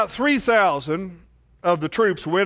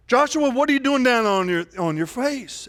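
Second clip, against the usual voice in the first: God's rebuke; 5 semitones higher than usual. Acted. God rebukes Joshua.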